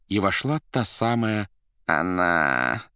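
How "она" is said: drawn-out, dejected thought; with anguish. A narrator's reading. Director seeing the same woman enter, with anguish. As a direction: stretch it out with sinking dread. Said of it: "с тоской подумал Римский".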